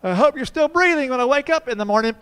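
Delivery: put-on spooky little boy at bedtime; creepy kid voice. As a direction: deliver it like a horror-movie child. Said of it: "He looks up at me and goes".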